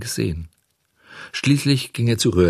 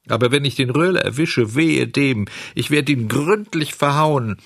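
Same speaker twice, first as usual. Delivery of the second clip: raised, vengeful puppet outburst; indignant threat; 6 semitones higher than usual. A narrator's reading. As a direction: threaten revenge with rising pitch. Puppet threatens the bad friend. (empört drohend, mit gehobener Stimme)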